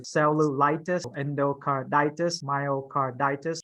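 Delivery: slow "cellulitis, endocarditis, myocarditis", each weighted on the eye of itis; stress on itis. Shown as a demonstration. Teacher listing examples for students, slow stress on itis in "cellulitis, endocarditis, myocarditis". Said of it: "emphasis on the itis part".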